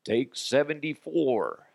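slow, drawn-out take call; rehearsing CEO. Acted. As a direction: announce yet another take, stretched out. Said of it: "him rehearsing that whole thing".

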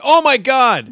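loud, high hammed-up fan outburst; mock overexcitement. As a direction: blurt it out like an over-hyped fan. Acts out getting overexcited as a fan.

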